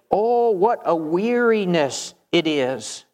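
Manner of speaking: slow, drawn-out weary groan of words; weary complaint. Acted. Preacher quotes worshippers who find worship a burden, wearily. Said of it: "worship had become a burden to them".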